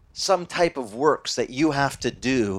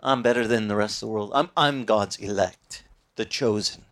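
mock arrogance; 6 semitones lower than usual. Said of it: "little bit of arrogance".

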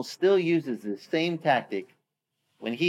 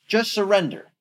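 bully's threat; 6 semitones higher than usual. Retold or imitated. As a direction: gloat over their doom. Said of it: "The bully is back".

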